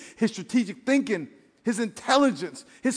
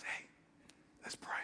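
much softer, hushed call to pray; soft divine voice; 25 dB quieter than usual. Retold or imitated. God quietly waking a sleeper to pray, hushed. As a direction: nudge gently, barely there. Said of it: "God says".

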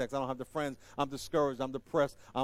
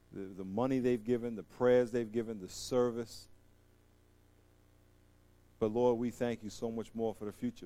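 soft, lower prayer voice, prayed over the room; closing prayer; 7 semitones lower, 3 dB quieter than usual. Real, not acted. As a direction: lead the church in quiet earnest prayer.

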